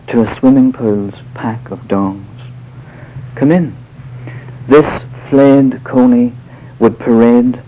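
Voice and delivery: measured, deliberate reading of a poem; poetry reading. Acted. Poet reading his poem to a live audience, measured and deliberate. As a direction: read each line as verse, letting pauses land.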